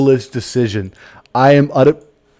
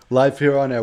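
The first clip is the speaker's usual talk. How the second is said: ordinary delivery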